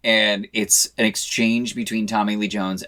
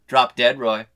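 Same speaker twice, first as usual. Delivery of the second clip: grinning comeback; 5 dB louder than usual. Retold or imitated. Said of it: "flashes the grin right back and says".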